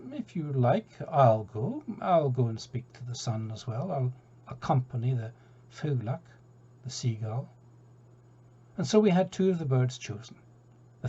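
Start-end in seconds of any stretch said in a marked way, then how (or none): 0.1-7.5 laconic. Acted. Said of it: "rather a laconic creature".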